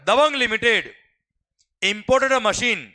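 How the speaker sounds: slow, word by word for note-taking; slow dictation. Shown as a demonstration. Teacher slowly dictating a question to students. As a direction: spell each word out for the class. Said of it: "धीरे धीरे बोल रहे".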